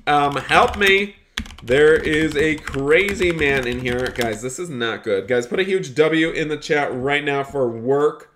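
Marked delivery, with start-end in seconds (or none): 0.4-4.1 mock cry for help. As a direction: call out for rescue in playful panic. Playfully calling for help in game.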